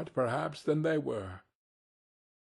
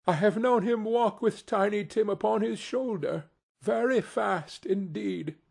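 steady, cheerful; 8 semitones higher than usual. A narrator's reading. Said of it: "in a steady, cheerful voice".

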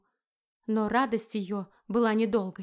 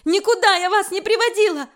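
higher, louder screamed denial; shouted denial; 9 semitones higher, 8 dB louder than usual. Acted. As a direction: yell it in his face. Erika screams her denial.

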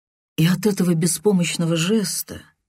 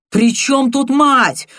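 raised, slow shouted question; 9 semitones higher, 6 dB louder, slower than usual. A narrator's reading. Viktor shouting back at his friend, a slow loud cry. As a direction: yell it out in protest. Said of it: "крикнул он".

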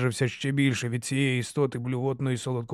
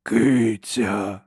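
slow rasping monster voice; harsh cracked giant voice; 2 semitones lower, 4 dB louder than usual. A narrator's reading. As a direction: drag out each word like a simple-minded brute. Giant speaks.

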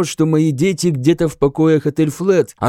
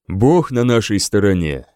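kind voice; 6 semitones lower than usual. A narrator's reading. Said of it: "добрым голосом сказал Альфред".

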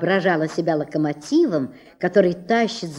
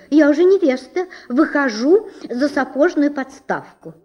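proud comb; 6 semitones higher, 3 dB louder than usual. Acted. Comb announces her engagement.

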